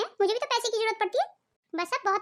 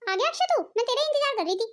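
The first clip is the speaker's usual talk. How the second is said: scolding mother. Acted. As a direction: grill the son like a suspicious mother. Mother scolds son about money.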